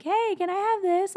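high-pitched, hopeful little request; eager asker. Acted. Believer asking God for something, eager request. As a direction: ask sweetly, like wanting a treat. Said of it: "wants you to be like".

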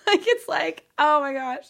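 high, loud oh my gosh; amazed exclamation. Real, not acted. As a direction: burst out in wonder. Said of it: "sometimes I feel like I'm screaming".

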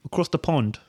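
put-on playful British accent. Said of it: "U K accent".

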